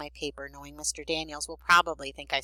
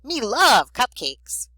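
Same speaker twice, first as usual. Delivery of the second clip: loud, slow, higher-pitched greedy monster; Cookie Monster; 8 semitones higher, 9 dB louder, much slower than usual. A narrator's reading. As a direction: drag out the craving in a hammed-up creature voice. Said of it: "That's Cookie Monster who talks like that".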